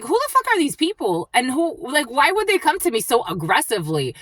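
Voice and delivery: high-pitched, incredulous rant; retold indignation. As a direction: act out being outraged at rude strangers. Retells outrage at pushy strangers.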